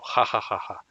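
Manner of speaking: spoken ha ha ha to show the H sound; laugh demo. Shown as a demonstration. Teacher to class, showing the H with a laugh. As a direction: give a short laugh as an example. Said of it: "como la H americana de las risas".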